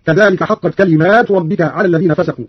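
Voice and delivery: كلمات with a long "aa" after the m; alif after the mim. Shown as a demonstration. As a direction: lengthen the plural ending of كلمات, "kalimaatu". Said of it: "بألف بعد الميم على الجمع هكذا".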